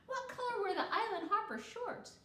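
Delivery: put-on a high, curious little girl; eager child voice. A narrator's reading. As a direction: ask it like an eager kid. Child Kiko asks eagerly.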